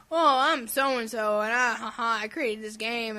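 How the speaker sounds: lightly put-on self-satisfied developer, drawn out; mock a developer with fake ha-has; mock game creator. Podcaster mocking a game's creator to a co-host, lightly hammed-up. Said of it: "my mouth's talking like this".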